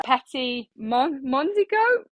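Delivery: halting French name in a Midland accent, rising high at the end; hesitant mispronunciation. Real, not acted. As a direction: stumble slowly through "Petit Mon-, Mondigo", ending on a high questioning note. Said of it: "in my Midland accent, I will butcher".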